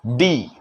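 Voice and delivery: "डी" with the teeth held together; "डी" with a hard retroflex d; English D. Shown as a demonstration. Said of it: "दांत को सटा के डी बोलने का प्रयास".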